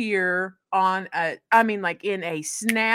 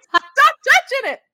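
high, loud, slow mock pleading; alarmed plea; 10 dB louder than usual. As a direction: beg him to stop in mock alarm. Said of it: "You're like".

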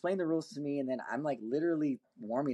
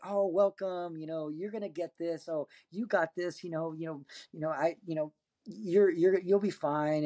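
higher-pitched, friendly mock pep talk; imitated encouragement; 5 semitones higher than usual. League players welcome the nervous first-timer, imitated encouragement. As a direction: voice a group cheering on the newcomer. Retold crowd welcomes and reassures newcomer.

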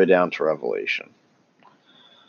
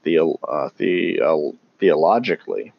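stumbling over a long word; false starts, then get the word out; tongue-tied. Real, not acted. Speaker struggling to say theologically, tongue-tied. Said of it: "I'm sorry, I'm tongue-tied today".

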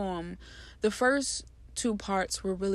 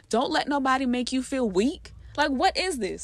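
heated and emphatic, a bit louder; worked up; 3 semitones higher, 3 dB louder than usual. Real, not acted. Speaker getting worked up defending men who cry, heated. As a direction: let the passion spill over. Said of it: "I got a little bit worked up there".

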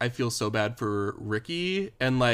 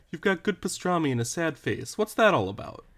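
put-on a touch higher, teasing baby-talk to a pet; cutesy pet talk; 5 semitones higher than usual. Quoting the butcher customer in a cooing pet voice. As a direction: coo it like talking to a cat. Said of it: "reminds me of how you talk to my cat".

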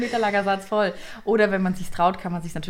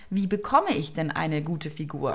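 calm questioning. Shown as a demonstration. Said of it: "wie zum Beispiel".

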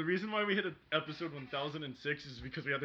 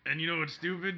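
put-on very old man. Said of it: "turned into my old man voice".

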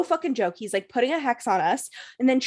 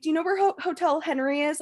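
lost, asking strangers; 5 semitones higher, faster than usual. Retold or imitated. Retold asking of random strangers.

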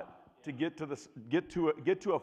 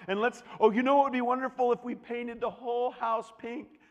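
giddy wife; 4 semitones higher, 4 dB louder than usual. Retold or imitated. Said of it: "be like".

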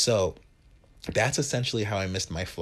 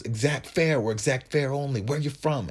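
raised, louder mock bus-driver voice; rude bus driver; 5 semitones higher, 4 dB louder than usual. Bus driver challenges confused newcomer over fare, mock rude. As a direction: play the driver challenging a passenger, pitched up.

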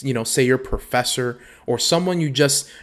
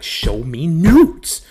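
pushy demand; 4 semitones higher, 6 dB louder, much slower than usual. Retold or imitated. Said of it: "He's like".

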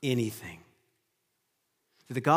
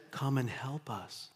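pleading vision voice; 7 dB quieter, slower than usual. Retold or imitated. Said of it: "the voice simply says".

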